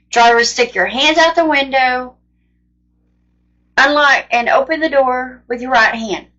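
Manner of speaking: cop's order retold with measured emphasis; imitated bullhorn command. Cop instructs driver at traffic stop, imitated bullhorn command. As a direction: mimic a loudspeaker instruction, not a full shout. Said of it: "to talk really loud to someone else".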